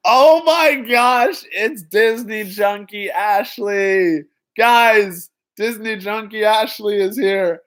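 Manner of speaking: high, excited Kermit the Frog voice, stretched slow; Kermit impression. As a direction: squeal it like Kermit greeting a friend. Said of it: "That was my best Kermit impression".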